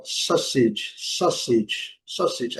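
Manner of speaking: sausage said SOSS-itch, U silent; AU almost as O. Shown as a demonstration. Teacher explains the silent U, AU almost as O. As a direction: open sausage on an O-like vowel. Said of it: "dando um som quase que de O".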